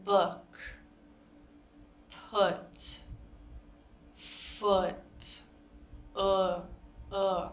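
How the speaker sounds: "Book," "put," "foot," said with a lax vowel, mouth barely moving; teacher models the lax vowel in "Book," "put," "foot,"; relaxed oo. Shown as a demonstration. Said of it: "Our mouth is very relaxed".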